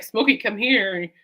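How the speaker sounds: drawn-out call to a dog; mildly acted summons, stretched out slowly. Owner to dog who won't listen, calling her over.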